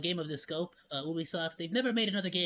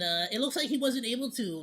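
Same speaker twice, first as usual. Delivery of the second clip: usual speaking voice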